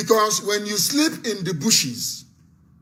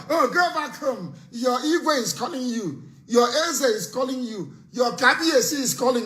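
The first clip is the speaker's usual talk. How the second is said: higher-pitched mimicking of the old orders; mock summons home; 4 semitones higher than usual. Host mimics elders calling protesters back home, mock summons. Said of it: "They think it's like before".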